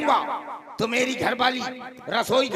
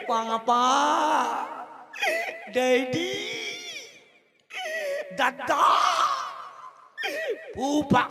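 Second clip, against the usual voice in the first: put-on loving child; 10 semitones higher, much slower than usual. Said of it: "बड़े प्यार से कहेंगे".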